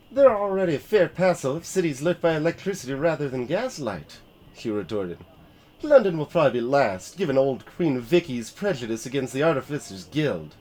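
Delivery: retort, lightly voiced; artificer retort.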